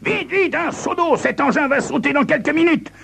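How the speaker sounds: high-pitched panicked yell; lieutenant yells for water in a panic. Acted. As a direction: shout the alarm, way up high. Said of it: "Il hurle".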